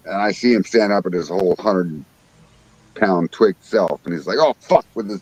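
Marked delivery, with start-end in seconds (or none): 4.4-4.9 higher-pitched imitation of an alarmed uncle; retold alarm. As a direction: mimic his startled curse. Uncle hooks fish in retold story.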